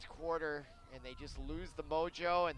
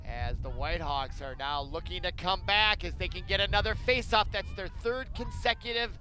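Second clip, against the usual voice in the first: excited play-by-play; 2 semitones higher, 3 dB louder than usual. Acted. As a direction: raise the stakes on the face-off.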